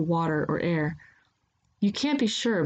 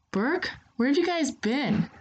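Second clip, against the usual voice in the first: sleepy voice; 9 semitones higher than usual. A narrator's reading. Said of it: "Hoshi's sleepy voice".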